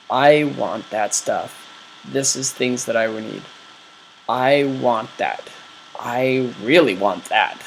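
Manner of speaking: earnest wanting. Retold or imitated. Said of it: "you'll be telling your brain".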